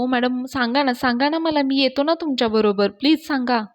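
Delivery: वरच्या पट्टीत, आर्जवाने विनवणे; सोबत येऊ दे म्हणून आर्जव करा; विनवणी करत. Acted. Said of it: "राजा अवनीला खूप विनवण्या करत असतो". (फोनवर अवनीला विनवणारा राजा, उंच आर्जवी स्वर)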